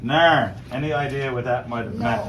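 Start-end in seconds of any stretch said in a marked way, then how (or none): 0.0-0.5 loud one-word Newfoundland reply; curt Newfoundland answer, falling; Newfoundland dialect. Acted. Captain answering the other captain, in Newfoundland dialect. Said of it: "And a response".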